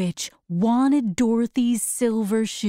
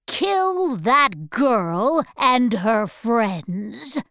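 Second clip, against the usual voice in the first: wicked witch voice; much slower than usual. Acted. Witch orders monkeys.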